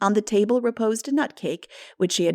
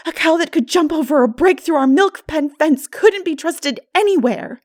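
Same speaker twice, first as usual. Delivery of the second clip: put-on high, louder, young girl talking herself out of guilt; rueful girl; 8 semitones higher, 7 dB louder than usual. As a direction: rattle off excuses in a rush. Anne's voice, rueful.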